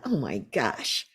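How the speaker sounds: imitating her own horrified surprise; shocked disbelief. Retold shocked reaction to retreat.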